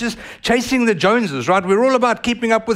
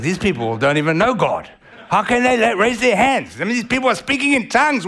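offended; 5 semitones higher than usual. Retold or imitated.

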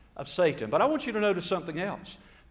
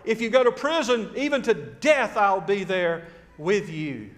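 raised, emphatic boast; acted-out bragging, slowing at the end; bragging Peter; 4 dB louder than usual. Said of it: "bragging about what he couldn't".

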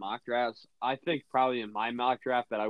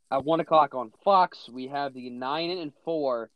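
announcer read. Acted. Reads game preview like announcer.

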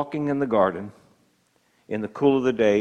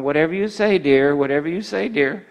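meek husband. Retold or imitated. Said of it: "by the wife going".

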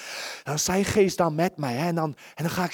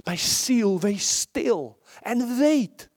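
quoting the song slowly; 3 semitones higher, much slower than usual. Retold or imitated. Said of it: "zo'n mooi lied ook weer vanmorgen".

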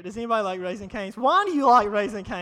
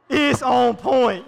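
louder and slow, laughing through it's on point; slow laughing shout; 6 dB louder, much slower than usual. Shown as a demonstration.

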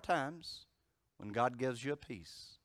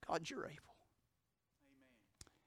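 soft whispered plea to God; whispered prayer; 9 semitones higher, 11 dB quieter than usual. Retold or imitated. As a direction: breathe the prayer out, barely voiced. Retold desperate prayer.

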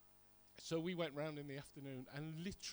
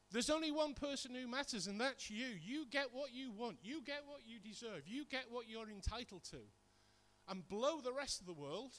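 higher, insistent mock voice of the world; the world's selfish message; 5 semitones higher than usual. Preacher voicing what the world tells each of us, higher and insistent. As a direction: lightly voice a self-centred world urging you on.

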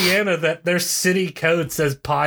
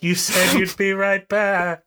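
ghostly student; 5 semitones higher, slower than usual. Acted. Ghost students haunting the professor.

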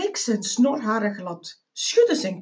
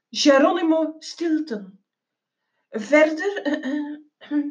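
mildly indignant, then hesitant backpedalling; a touch of awkward self-defence; flustered face-saving; 3 semitones higher than usual. Acted. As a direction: start on your dignity, then falter with ums. Embarrassed narrator backpedals, saving face.

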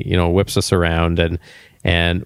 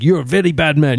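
mock Indian accent; 6 semitones higher, faster than usual. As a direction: scold him in a hammed-up Indian accent. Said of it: "I said to him with a Indian accent".

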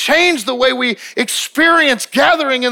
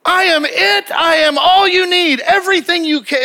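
voice of God proclaiming; 8 semitones higher than usual. Retold or imitated. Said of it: "opened up the heavens and just going".

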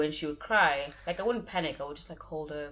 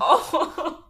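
surprised; 10 semitones higher, 6 dB louder than usual. Retold or imitated. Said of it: "I'm like".

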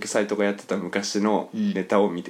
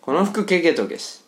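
slow repeat of Tsugaru phrase; 7 semitones higher than usual. Shown as a demonstration.

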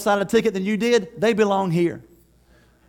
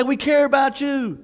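slow, earnest, loud reassurance; reassuring welcome; 4 semitones higher, 5 dB louder, slower than usual. Retold or imitated. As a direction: embrace the newcomer with your voice. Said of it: "be there with them and say".

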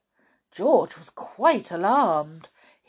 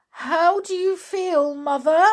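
high, anxious question; worried, high-pitched enquiry; 8 semitones higher, 5 dB louder than usual. A narrator's reading. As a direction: ask with mounting worry, raised at the end. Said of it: "asked Missus Cranky anxiously".

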